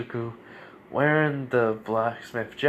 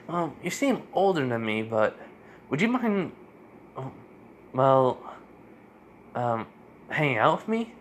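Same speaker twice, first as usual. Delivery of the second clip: lightly voiced child, higher and hesitant; a hint of a shy boy asking a favour; kid emperor; 4 semitones higher than usual. Kid emperor asking the older newcomer to hang out, shyly. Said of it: "the Emperor says".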